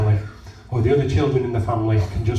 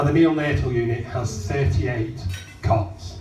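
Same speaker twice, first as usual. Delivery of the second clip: hoarse, rough throat; talking through a sore croaky throat. Real, not acted. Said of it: "I'm a bit croaky".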